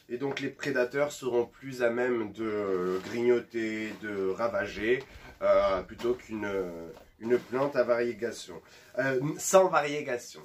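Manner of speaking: slushy lisp on s sounds. Real, not acted. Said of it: "j'ai pire qu'une, qu'un cheveu sur la langue".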